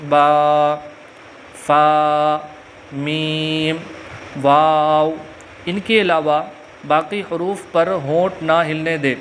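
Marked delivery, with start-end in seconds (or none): 0.1-5.1 "با، فا، میم، واو" each said crisply from the lips; lip letters. Shown as a demonstration. Teacher demonstrating the four lip letters, crisp. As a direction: pop "با" and "فا" off the lips, one by one. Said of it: "ہونٹوں سے صرف چار حروف ادا ہوتے ہیں".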